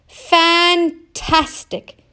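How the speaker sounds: high, slow delighted shout. Acted. Oscar cheering the octopus, high slow delighted shout. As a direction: savour the joy. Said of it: "shouted Oscar".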